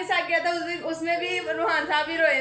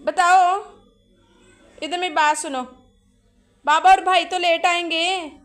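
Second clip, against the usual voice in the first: louder, insistent motherly call; firm loud call; 6 dB louder than usual. Real, not acted. Mother calls to her crying son, loud and firm. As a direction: get his attention over the crying.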